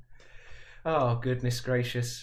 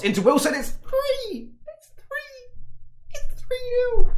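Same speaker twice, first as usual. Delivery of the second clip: much higher shrieking yell, the last call slower and louder; ecstatic goal shriek; 9 dB louder, slower than usual. Real, not acted. Fan commentator celebrating the third goal, shrieking with joy. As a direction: screech it like the winner just went in.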